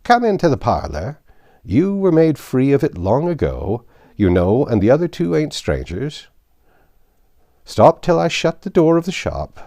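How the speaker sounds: put-on high, loud, creaky old man voice; old Joe, cackling old rascal. Old Joe greeting the thieves, high and gleeful. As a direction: wheeze it out like a gleeful old fence.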